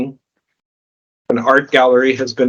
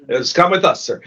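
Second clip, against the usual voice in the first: border officer; 2 semitones higher than usual. Acted. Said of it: "says the customs officer".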